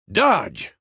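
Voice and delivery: quick high call to a trainee; sparring instructor's call; called-out command. Acted. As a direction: call the move out sharply. Calling out in sword training.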